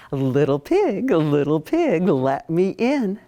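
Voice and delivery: lightly voiced wolf, slow; a hint of the wolf at the door; big bad wolf. Wolf calling at the first piggy's house, lightly voiced. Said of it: "he knocks and he's like".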